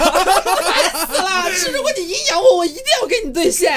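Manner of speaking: high, loud, half-laughing outburst; laughing exasperation. Real, not acted. To friends, venting about sarcastic players, laughing and exasperated.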